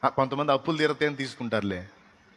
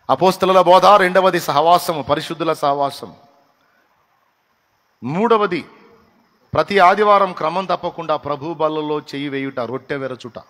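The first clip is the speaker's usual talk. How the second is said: much louder, higher listing of points; loud preaching; 4 semitones higher, 8 dB louder than usual. Acted. Pastor lists the four duties to believers, preaching loudly. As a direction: drive the points home loudly.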